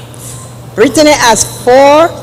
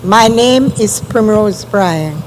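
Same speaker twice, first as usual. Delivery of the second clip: speaking up. Real, not acted. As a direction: raise your voice so it carries. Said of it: "Can you speak up, please?".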